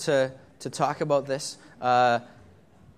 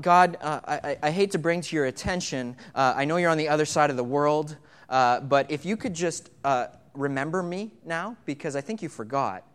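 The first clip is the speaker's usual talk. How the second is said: casual mock complaint; 2 semitones lower than usual. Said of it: "This is not".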